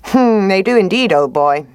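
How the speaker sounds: fox voice. Acted. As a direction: agree a little too readily. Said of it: "said the fox".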